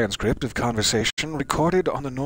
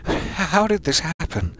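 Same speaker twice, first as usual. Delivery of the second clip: slow, higher, stunned mother's question; grieving mother; 5 semitones higher, slower than usual. Acted. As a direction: ask it slowly like a broken mother. Grieving mother voiced by player.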